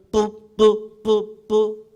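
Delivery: urgent choppy horn blasts; clipped trumpet blasts, urgent; staccato. Shown as a demonstration. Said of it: "이게 평안해요?".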